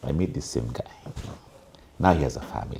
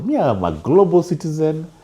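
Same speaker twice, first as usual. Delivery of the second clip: higher, louder imitation of a young man; lightly voiced, insistent young guy; young Gen Z man; 5 semitones higher, 4 dB louder than usual. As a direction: proclaim it as the retold youngster. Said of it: "conversation I was having with a Gen Z".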